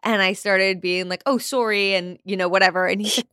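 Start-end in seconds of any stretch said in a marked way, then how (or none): 1.3-1.9 imitated Canadian accent, pitched a bit higher. Host showing how she picked up Canadian friends' talk, Canadian accent. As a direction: slip lightly into a Canadian accent. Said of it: "have a full-blown Canadian accent".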